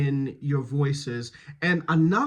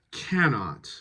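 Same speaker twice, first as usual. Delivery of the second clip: slow "cannot", stressed on "can"; stress off the negative; 2 semitones lower than usual. Shown as a demonstration. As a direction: lean on "can", let "not" fall. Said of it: "stress is always on the non-negative".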